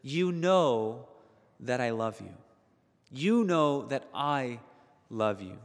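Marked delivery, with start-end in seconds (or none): 3.1-5.6 tender, slower. Retold or imitated. Peter to Jesus at breakfast, tender earnest affirmation. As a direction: linger on it like a confession. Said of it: "He says".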